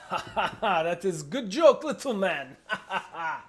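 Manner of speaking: loud laughing giant voice. Acted. Giant amused by the joke, laughing loudly. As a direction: laugh through the words, booming. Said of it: "He goes".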